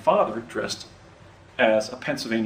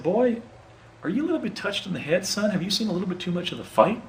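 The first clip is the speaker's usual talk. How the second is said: gruff officer; 8 semitones higher than usual. Retold or imitated. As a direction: play the Union officer poking fun at a confused kid. Union officer questions suspicious boy.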